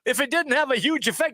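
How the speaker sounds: incredulous. Real, not acted. Host mockingly challenges coach's quoted answer.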